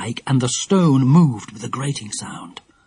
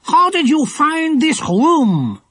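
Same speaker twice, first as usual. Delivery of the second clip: slow, higher, menacing demand; scowling demand; 12 semitones higher, 3 dB louder, slower than usual. A narrator's reading. Bearded man interrogating the girls, scowling. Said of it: "demanded the bearded man, scowling".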